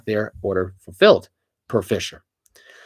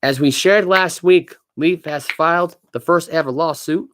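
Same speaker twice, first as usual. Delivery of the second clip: odd reading voice; 4 semitones higher than usual. Pretend. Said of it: "Why are you reading like that?".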